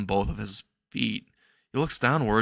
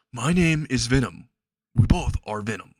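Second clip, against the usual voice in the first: creature voice; 4 dB louder than usual. A narrator's reading. Creature introduces itself.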